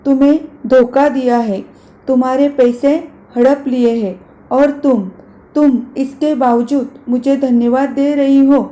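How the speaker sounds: loud, angry, trembling voice; voice shaking with anger. Acted. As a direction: rage rising, words shaking. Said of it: "गुस्से में आवाज़ कांपने लगती है".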